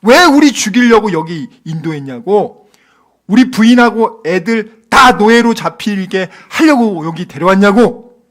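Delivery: loud acted protest; indignant mock outburst; accusing God. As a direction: hurl the complaint with hard emphasis. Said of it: "하나님 지금 욕하고 있는 거".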